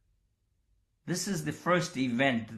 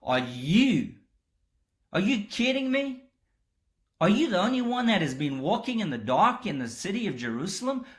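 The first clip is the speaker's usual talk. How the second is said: incredulous astonishment; 4 semitones higher than usual. Retold or imitated. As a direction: play Cleopas who can't believe what he's hearing. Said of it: "There's astonishment on the part of Cleopas".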